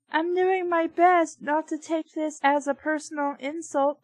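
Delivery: a meatball with hurt pride; offended meatball. Acted.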